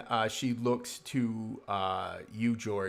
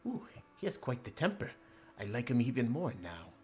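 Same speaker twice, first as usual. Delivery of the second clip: amused, high at first; 4 semitones higher than usual. Acted. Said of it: "she says".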